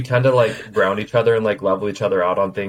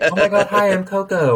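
high, put-on friendly squeal; mock-social gush; gushing greeting; 10 semitones higher than usual. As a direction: answer with an exaggerated high hello. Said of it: "then they're like".

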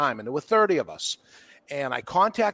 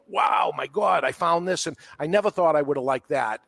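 mock amazed discovery; 3 semitones higher than usual. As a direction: play the thrilled customer who just found a new favourite. Customer discovering a new cigar.

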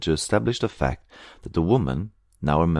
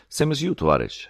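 high-pitched knowing aside; significant, pointed; 9 semitones higher than usual. A narrator's reading. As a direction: add it with pointed meaning. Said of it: "she added significantly".

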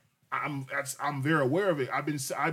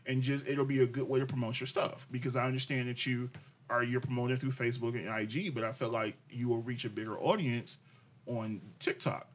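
softer, calm, reasonable tone fading quieter; gentle reasonable suggestion; 3 semitones lower, 4 dB quieter than usual. Retold or imitated. Husband replays his calm TikTok suggestion to wife, soft. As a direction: lay it out gently as friendly advice. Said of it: "I said".

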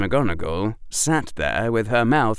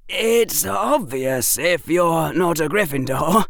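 put-on higher-pitched boy, mildly kind; gently patronising pupil, voice pitched up; kindly schoolboy; 7 semitones higher than usual. A narrator's reading. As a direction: explain it with a touch of kindness. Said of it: "Harry said kindly".

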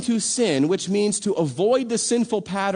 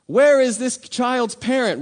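louder, slow call for the missing parent; slow, raised call for the parent; 4 semitones higher, 5 dB louder, slower than usual. Retold or imitated. Stranger calling for a lost child's parent, raised and slow.

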